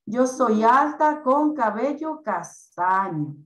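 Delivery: slow dictation. Shown as a demonstration. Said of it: "ella va a colocar".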